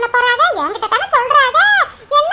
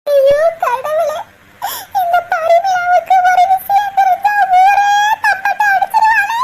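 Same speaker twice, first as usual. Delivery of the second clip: crying lament; 5 semitones higher, slower than usual. Acted. Sister despairs as gossip will spread.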